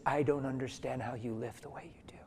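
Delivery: hushed, hesitant murmur, almost unvoiced; a nervous supervisor barely getting the words out; timid, whispery retelling of a boss on the phone; mealy-mouthed and tentative. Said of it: "in a mealy mouth voice and tentative".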